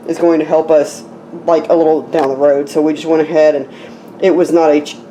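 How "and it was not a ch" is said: hiccup breaks the word; speaking while hiccuping. Real, not acted. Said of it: "I've got hiccups".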